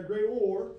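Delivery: great or, with the or said out loud as its own word; split into two words. Shown as a demonstration. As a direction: greater pulled apart into great and or. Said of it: "you hear the word or in there".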